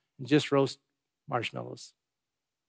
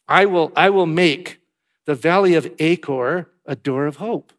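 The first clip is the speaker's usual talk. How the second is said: proclaiming loudly; 5 dB louder than usual. Acted. Preacher proclaiming God's promise.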